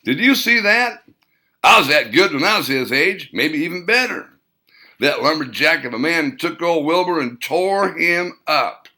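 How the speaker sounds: high, loud gleeful cackle of praise; old war vet crowing with delight; excited old man. Acted. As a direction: crow about the fight. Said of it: "laughed out loud, saying".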